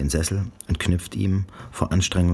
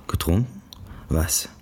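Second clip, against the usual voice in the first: erschrockenes Flüstern. A narrator's reading. Janice fragt erschrocken zurück.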